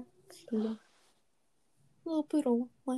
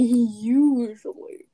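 laughing, drawn out; 6 dB louder, much slower than usual. Real, not acted. Laughing repeat of teasing echo.

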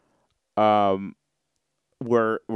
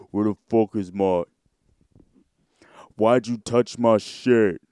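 mock annoyed girlfriend. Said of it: "You're getting the".

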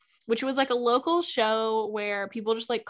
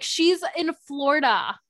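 raised, louder dismissive cop impression; mock police voice; 5 semitones higher, 4 dB louder than usual. Mocking the police who brushed off the family. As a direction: sneer it like a lazy cop.

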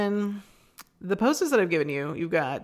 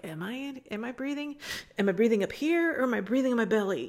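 higher-pitched, mildly acted self-doubt; unsure self-questioning; 5 semitones higher, faster than usual. Yoga student unsure about their breathing, lightly acted self-questioning. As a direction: lightly act out someone checking their breath. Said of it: "or you're not sure, like".

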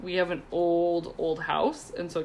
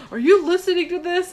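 higher, louder call to the next room; husband calling from the bathtub; 10 semitones higher, 7 dB louder than usual. Retold or imitated. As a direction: call out to your wife, half laughing. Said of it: "he's like".

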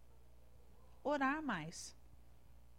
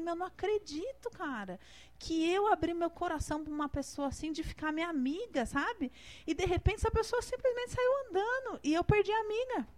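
higher-pitched, mildly plaintive retelling; retold tearful disbelief; 5 semitones higher than usual. Speaker retells losing her friend at home, mild plaintive disbelief. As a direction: replay the hurt, pitch climbing, without real crying. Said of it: "comecei a chorar na minha casa".

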